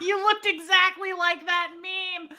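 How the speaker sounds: laughing through the words. Real, not acted. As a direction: giggle while saying it. Friend laughing.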